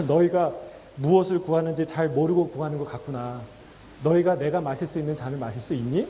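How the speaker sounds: gently low, kind voice of Jesus; warm and tender. Retold or imitated. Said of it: "정말 따뜻하게, 다정하게 말씀하세요".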